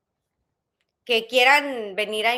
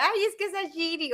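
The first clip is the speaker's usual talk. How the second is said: grumbling grandma imitation; 6 semitones higher, 5 dB quieter than usual. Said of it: "o luego le decía".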